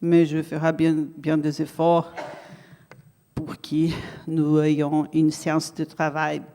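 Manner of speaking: Brazilian accent in French. Real, not acted. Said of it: "mon français est un français brésilien".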